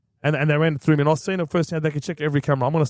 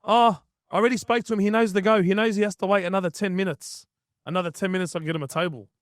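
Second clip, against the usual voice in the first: higher-pitched imitation of a staffer; lightly mimicked staff member, pitched up; imitating staff member; 5 semitones higher than usual. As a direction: retell the staffer's brush-off in a raised pitch. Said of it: "He goes".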